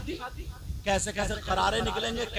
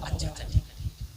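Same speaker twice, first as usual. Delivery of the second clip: a hint of a lower, unbothered father; father's easy reply; 6 semitones lower, faster than usual. Preacher mimics a careless father, lightly lower. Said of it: "अब्बा बोला".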